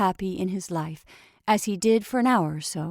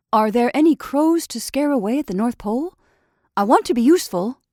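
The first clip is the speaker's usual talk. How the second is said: anxious; 4 semitones higher, 6 dB louder than usual. Acted. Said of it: "Jimmy Scarecrow said anxiously".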